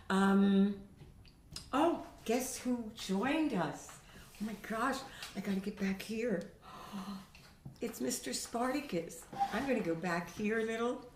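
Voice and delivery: usual speaking voice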